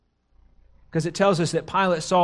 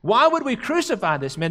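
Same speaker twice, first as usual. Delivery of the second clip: halting, mildly bewildered retelling; imitating someone taken aback, with false starts. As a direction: act mildly stunned, stumbling into the question. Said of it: "He's just taken aback".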